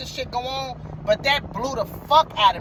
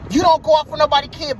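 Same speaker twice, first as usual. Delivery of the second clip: loud, high retold yell; angry shout; 4 semitones higher, 4 dB louder than usual. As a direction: shout it down at the driver. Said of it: "So he was just like".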